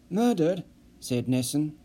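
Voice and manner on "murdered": shocked echo. Acted.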